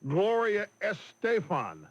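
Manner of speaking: A singer's name with an American gringo accent. Shown as a demonstration. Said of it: "I sound like a gringo when I".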